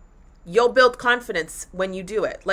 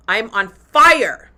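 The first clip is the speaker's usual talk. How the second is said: fired up; 7 dB louder, much slower than usual. Real, not acted. Proud of doing the work.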